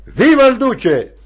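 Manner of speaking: high, punchy response cry; rallying cheer. Acted. Children answering the party secretary, rallying cheer.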